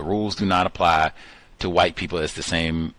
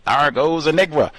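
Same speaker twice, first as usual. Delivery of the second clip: mock Southern shout, pitched up; thick Southern accent; 8 semitones higher, 5 dB louder than usual. Agent in the car shouting in a Southern accent. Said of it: "shouted in his thick Southern accent".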